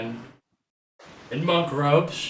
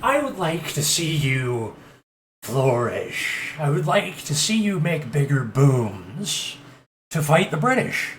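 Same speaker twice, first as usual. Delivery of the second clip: smooth monk recruiter; 4 semitones higher, 3 dB louder than usual. Acted. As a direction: lure him in like a sly Cheshire cat.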